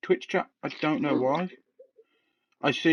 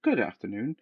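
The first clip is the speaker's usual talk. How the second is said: phone voice; 3 semitones lower, 5 dB quieter than usual. Retold or imitated. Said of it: "I'd answer and I'd go".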